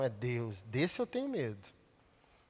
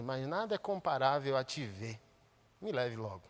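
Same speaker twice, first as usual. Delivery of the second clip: prayer. Acted. Prays to God mid-sermon.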